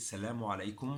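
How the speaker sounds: teacher modelling Salamu alaikum; teacher says the greeting for students to repeat; Arabic greeting. Shown as a demonstration. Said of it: "The greeting, we say".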